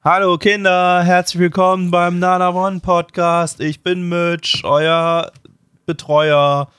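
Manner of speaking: put-on sugary high kids' TV host; slow, sing-song children's presenter; silly clown. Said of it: "kids show host parody".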